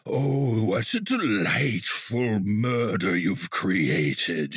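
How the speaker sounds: slow, creepy serial killer. Pretend. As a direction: savour each word like a cheerful murderer. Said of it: "So I think I just said".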